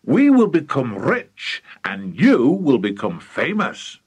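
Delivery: grand, drawn-out enthusiasm; excited father. Acted. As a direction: stretch the big words with rising excitement. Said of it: "Mister Cranky was too excited".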